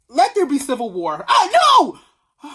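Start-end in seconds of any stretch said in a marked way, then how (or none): 1.3-2.5 high, loud hammed-up cry of no; mock alarm. Vlogger joking about civil war, hammed-up alarm. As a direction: play at being horrified.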